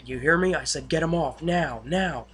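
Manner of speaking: mildly barked retold order; pressing someone to obey at once; retold stern order.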